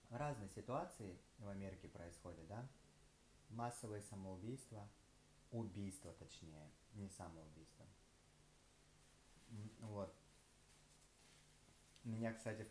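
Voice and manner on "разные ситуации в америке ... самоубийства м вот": chewing between words; talking while eating; mouth partly full. Real, not acted. Seen 1: Holds food piece, bites it near 4.7s, keeps talking after.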